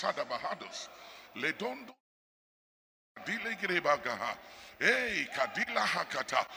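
soft murmured tongues prayer; praying in tongues. Real, not acted. Preacher praying in the spirit, soft. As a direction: let the tongues flow quietly.

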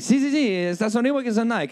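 eager caller. Retold or imitated. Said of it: "he's like".

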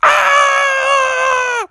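very high, outraged shrieking pig; Miss Piggy. Acted. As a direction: shriek in horror at the wreck. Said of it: "she jumped out of the car and said".

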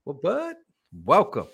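put-on playful high Aussie accent; mock Australian with rising question. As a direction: ham up an Australian greeting. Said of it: "an accent that's not mine".

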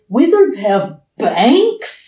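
mock-curious kid, slowly drawn out; excited curiosity. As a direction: draw it out in mild, incredulous wonder. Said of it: "he's excited, curious".

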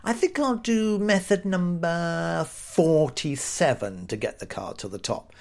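slow, drawn-out mulling over a choice; mock pondering. A magician picking from a huge checklist, mock pondering. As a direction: ponder slowly, then drop away at the end.

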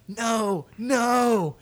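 high, strained no, no; imitating his younger self screaming; mock scream. Little kid screaming no while holding it in. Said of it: "I'm just screaming".

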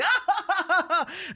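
high, loud staccato cackle; mock stage laugh. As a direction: burst into an exaggerated high laugh. Acting out the comedy's laughter.

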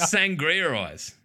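slow, drawn-out "Sangria eyes"; slow emphatic. Shown as a demonstration. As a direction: savor the words slowly. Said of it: "repeats the phrase".

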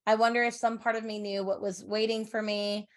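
even, understated storytelling voice; story narration. A narrator's reading. Reads a passage aloud.

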